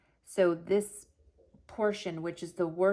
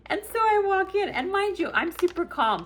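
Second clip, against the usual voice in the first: laughing while talking; 12 semitones higher, 5 dB louder than usual. Real, not acted. Laughs while retelling hospital return.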